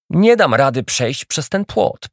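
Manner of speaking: complaining. Acted. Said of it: "poskarżył się Baltazar".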